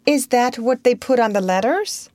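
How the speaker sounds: nice. A narrator's reading. Wendy as hostess to her guest, nicely. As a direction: inquire like a gracious hostess. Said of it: "Wendy said nicely".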